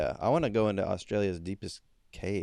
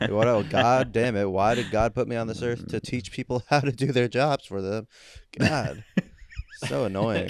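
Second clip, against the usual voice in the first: mock exasperation. Customer curses at having to teach staff their jobs, mock exasperated. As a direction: rail at incompetent staff in playful outrage.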